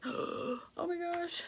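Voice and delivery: high, slow, breathy "Oh my gosh" after a gasp; awed gasp. Retold or imitated. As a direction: imitate her own amazed reaction.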